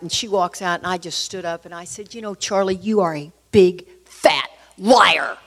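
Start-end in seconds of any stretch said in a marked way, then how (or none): 2.1-5.4 controlled anger, punching each word; retold pissed-off accusation. Wife accusing Charlie at the doctor's, pissed off. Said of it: "Just like that, I was so pissed".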